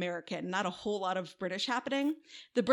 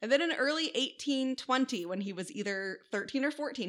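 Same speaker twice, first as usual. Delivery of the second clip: normal talking voice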